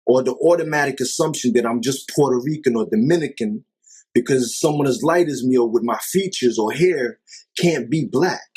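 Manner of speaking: normal talking voice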